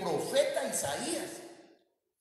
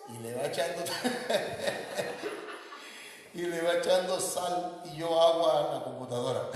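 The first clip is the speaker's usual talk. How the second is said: loud, laughing through the story; laughing apology; 2 semitones higher, 4 dB louder than usual. Real, not acted. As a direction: burst out laughing while telling it. (riéndose a carcajadas mientras cuenta)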